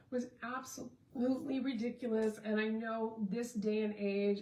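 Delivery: hiccup breaking the words. Real, not acted. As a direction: speak through hiccups and burps. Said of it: "I'm, like, hiccuping and burping".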